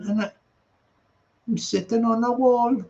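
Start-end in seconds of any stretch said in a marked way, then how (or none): 1.5-2.8 lightly put-on Geordie accent; a hint of mock Geordie; attempted Geordie accent. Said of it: "is that like a Geordie accent".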